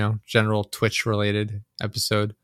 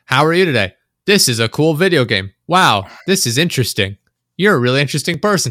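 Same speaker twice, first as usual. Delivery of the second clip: bright, chirpy canned chat-bot voice, a bit higher and louder; generic bot comments; 4 semitones higher, 5 dB louder than usual. Retold or imitated. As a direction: parody a spam bot's empty cheer. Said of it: "random generic sort of comments".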